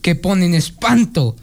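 put-on reciting an old Spanish farce; declaimed moral of an old play; dramatic recitation. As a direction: deliver the closing lines of a classic comedy.

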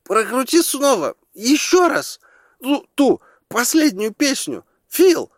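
high, loud pleading shout; excited call. A narrator's reading. Audience member shouts to Phil in the booth, high excited yell. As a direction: call up to the booth, begging for the song. Crowd calls to projectionist.

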